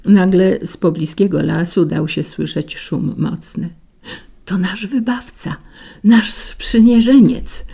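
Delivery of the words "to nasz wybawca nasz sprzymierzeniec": flowers hail their rescuer together; calling out in chorus. A narrator's reading. Flowers hail the approaching wind as saviour, excited. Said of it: "zawołały chórem wszystkie kwiaty".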